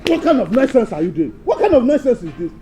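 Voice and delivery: loud, exasperated rebuke; angry scolding. Acted. Dance teacher fed up with wasted time, angry scolding. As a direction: demand it in irritated disbelief.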